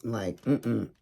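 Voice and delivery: snubbing the complainer, sassy; giving attitude. Retold or imitated. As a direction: brush her off with sass. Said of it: "you just give attitude back".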